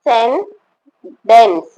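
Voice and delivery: very slow, split into de-scen-dants; syllable by syllable. Shown as a demonstration. Teacher giving students the spelling answer, syllable by syllable. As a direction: sound out each syllable with clear gaps.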